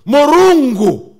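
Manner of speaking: loud, slow, drawn-out Morungu; Kimeru-accented loud call of Morungu; Kimeru prayer voice. Retold or imitated. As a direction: call out Morungu like a fervent Meru elder. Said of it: "every time he prayed in Kimeru".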